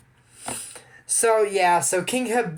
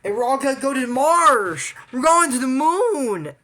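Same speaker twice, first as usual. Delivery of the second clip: excited campaign promise; 9 semitones higher, 6 dB louder than usual. Retold or imitated. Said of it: "Or you say".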